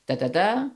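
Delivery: da, da, da, two light beats then a loud stressed one; anapest rhythm. Shown as a demonstration. Teacher demonstrating the anapest, loud on the last beat. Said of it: "a foot with three syllables".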